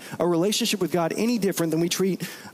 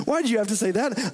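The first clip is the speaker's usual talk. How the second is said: mock exasperation; 6 semitones higher, faster than usual. Shown as a demonstration.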